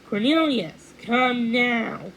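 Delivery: fairy queen commanding her son to come; queen's command. A narrator's reading. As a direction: order him home at once. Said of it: "the queen commanded".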